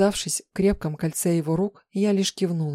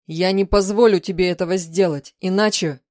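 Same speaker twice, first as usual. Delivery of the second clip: threatening; 6 dB louder than usual. Acted. Husband threatens wife.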